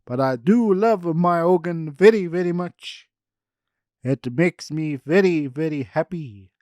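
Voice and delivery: hey hey hey, stop him taking over; indignant shouting. Acted. Ernie shouts at the one taking his organ, high loud protest.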